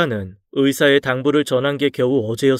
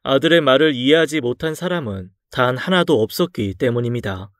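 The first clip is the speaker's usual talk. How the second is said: ordinary delivery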